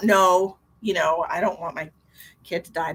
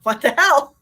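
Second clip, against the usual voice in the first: retold outburst; 7 semitones higher, 10 dB louder than usual. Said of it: "I was like".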